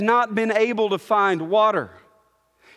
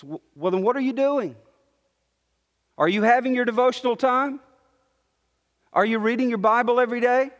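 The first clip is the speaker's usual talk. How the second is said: nagging inner critic; 2 semitones higher, much faster than usual. Retold or imitated. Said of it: "The first thing most of us think".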